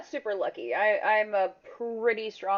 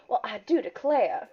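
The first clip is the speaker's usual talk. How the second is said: put-on old Southern lady. Shown as a demonstration. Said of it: "old Southern lady, I just, like, go".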